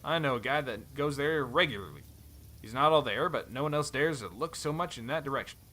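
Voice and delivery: put-on light cowboy accent, friendly; easygoing Western cowboy accent. Helm reminds Thorn they travelled together, cowboy accent. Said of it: "cowboy accent".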